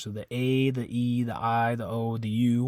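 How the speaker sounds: each vowel said pure and clear; name the Spanish vowels crisply; Spanish vowel sounds A, E, I, O, U. Shown as a demonstration. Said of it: "happens with all the vowels in Spanish".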